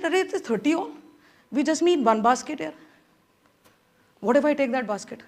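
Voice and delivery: mild inner voice of a plan; quiet inner thought. Retold or imitated. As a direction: murmur it to yourself, plotting.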